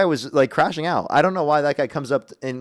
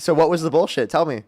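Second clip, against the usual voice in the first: put-on voice. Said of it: "I'm done with the voice".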